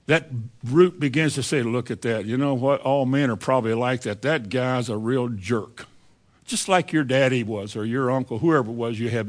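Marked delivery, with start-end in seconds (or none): 1.6-5.8 low, grudging mutter of a bitter heart; a touch of bitter grumbling; bitter inner voice. Acted. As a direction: voice the bitter thought, lower and quieter. Preacher voicing a bitter heart.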